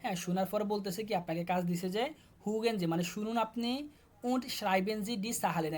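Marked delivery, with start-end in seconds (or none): 4.2-5.7 German phrase read slowly, then the Bengali gloss; teacher reading the task aloud, slowly. Shown as a demonstration. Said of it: "schreiben অর্থ লিখা".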